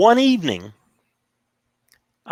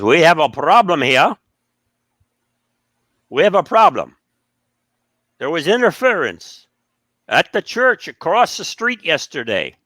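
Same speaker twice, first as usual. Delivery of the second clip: a hint of a stern professor, louder; scolding the club a bit louder; 3 semitones higher, 4 dB louder than usual. Professor scolding the club, mildly stern.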